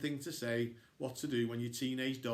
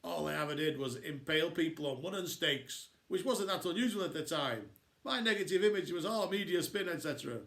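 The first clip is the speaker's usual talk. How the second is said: complaining Dracula; 2 semitones higher than usual. Acted. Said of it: "Dracula comes on and complains".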